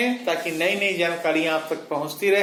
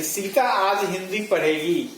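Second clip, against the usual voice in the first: हिंदी said with a firmer push than the rest; stress on हिंदी. Shown as a demonstration. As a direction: lean on हिंदी, the other words light. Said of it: "पहले वाक्य में हिंदी पर बालाघात है". (हिंदी पर ज़ोर)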